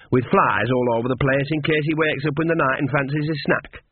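lightly voiced old countrywoman; a hint of a gossipy old witch; cheeky Nanny. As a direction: pile on the detail with relish. Nanny adds details.

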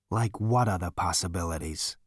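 low-key, tired question; weary. A narrator's reading. Zaphod humouring the stubborn elevator, weary. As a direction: ask it wearily, with no lift. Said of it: "he said wearily".

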